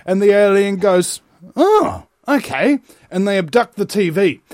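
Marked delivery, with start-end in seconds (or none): 1.5-2.8 dawning realisation. Retold or imitated. Alien accepts answer in joke.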